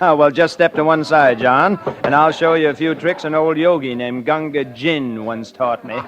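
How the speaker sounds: loud, chuckling show-off; laughing while showing off to the card players; laughing boast. Acted. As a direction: laugh as you brag about your tricks. Boasting he'll show card tricks.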